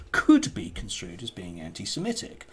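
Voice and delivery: "could" stressed as the key word. Real, not acted. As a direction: lean on "could" at the start. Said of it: "emphasis on the word could".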